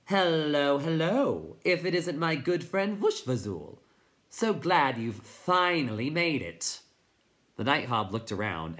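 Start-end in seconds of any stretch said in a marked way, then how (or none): 0.0-6.8 high, loud chirping greeting from a tiny character. Acted. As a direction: chirp it out as a delighted hello. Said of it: "Suddenly he heard a chirping voice".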